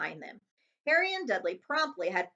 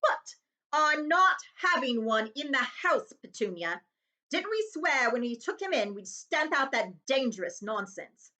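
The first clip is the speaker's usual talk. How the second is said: slow, louder, insistent uncle; firm refusal; 4 semitones higher, 4 dB louder, slower than usual. Acted. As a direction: put your foot down.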